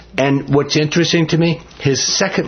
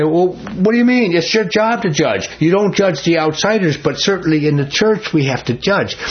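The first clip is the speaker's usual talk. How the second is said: higher, incredulous comeback; exasperated retort; 6 semitones higher than usual. Retold or imitated. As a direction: throw up your hands in disbelief. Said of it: "I just throw my hands up and say".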